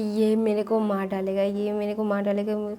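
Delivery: scared yell. Retold or imitated. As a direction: yell out in fright. A rapper scared at gunpoint. (रैपर डर के मारे ज़ोर से चिल्लाता है)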